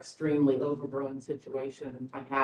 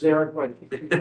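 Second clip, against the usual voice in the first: amused echo through a laugh; 6 dB louder, faster than usual. Real, not acted. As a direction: repeat it while chuckling. Applicant echoes remark, laughing.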